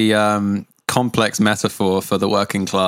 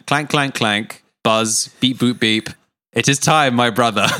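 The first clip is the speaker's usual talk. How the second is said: weak stab at a robot voice; bad robot voice. Shown as a demonstration. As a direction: clank and beep like a toy robot. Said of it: "that's not a good robot voice".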